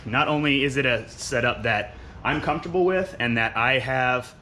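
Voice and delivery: winded, talking between breaths; short of air mid-sentence. Real, not acted. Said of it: "let me catch my breath here real quick".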